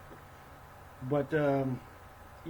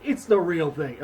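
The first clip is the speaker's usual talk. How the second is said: incredulous; 5 dB louder than usual. Retold or imitated. Incredulous retort to Thorin.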